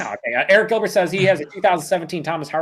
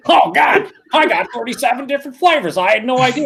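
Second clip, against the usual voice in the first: mock surprise; 10 semitones higher, 4 dB louder than usual. Mock surprise reading flavors.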